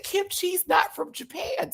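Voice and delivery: slow, high pointed correction. Retold or imitated. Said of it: "'cause I said".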